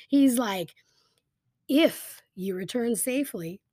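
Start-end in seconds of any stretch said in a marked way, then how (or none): 1.7-3.6 "If you return safely" set apart, long pause after "safely"; higher-pitched zinger, "safely" left hanging before going on; pregnant pause. Shown as a demonstration. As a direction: say "If you return safely", then let it hang. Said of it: "a very pregnant pause".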